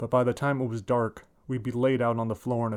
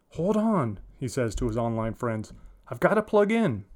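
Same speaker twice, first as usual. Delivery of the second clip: put-on boy gamer voice. Boy talking to gaming friends.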